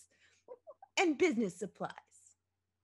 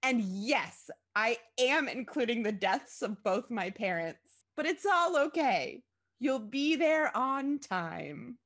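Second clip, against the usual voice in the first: raised voice swelling to drawn-out relief; melodramatic mother; 3 semitones higher, 4 dB louder, slower than usual. A narrator's reading. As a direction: gush on dramatically, stretching the end. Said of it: "but her mother continued".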